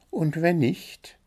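high, chirpy bird voice listing its complaints; little blue bird, demanding. A narrator's reading.

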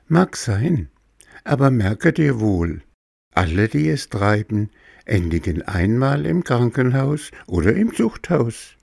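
high, cool, calm cricket. Acted. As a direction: coolly warn the puppet. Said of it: "mit kalter Seelenruhe".

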